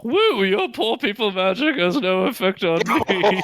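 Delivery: rich snob. Acted. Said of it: "I have to stop speaking in a rich person voice".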